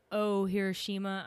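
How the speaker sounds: Oh Hiroshima said in a Texan accent; Texan accent on the band name. Real, not acted. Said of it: "I know I'm using my Texan accent".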